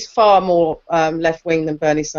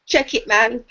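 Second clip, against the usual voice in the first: Jafaican accent; 3 semitones higher, slower than usual. Shown as a demonstration. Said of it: "or as I call it, Jafaican accent".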